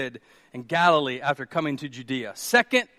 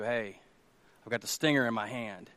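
low, hushed comforting voice; soft reassurance; 7 semitones lower, 9 dB quieter than usual. Acted. Jesus tells those scared of the enemy, soft reassurance. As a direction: soothe them quietly.

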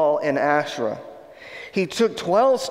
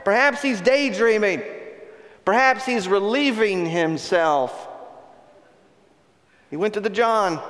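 mocking; 3 semitones higher than usual. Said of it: "Elijah began mocking them".

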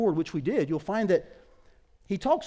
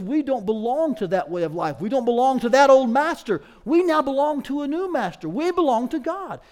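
higher, louder declaration to the church; emphatic preaching; 7 semitones higher, 7 dB louder than usual. Real, not acted. Preacher declares a new master, emphatic. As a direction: preach it with raised, forceful conviction.

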